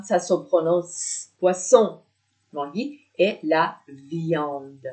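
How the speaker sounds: ordinary delivery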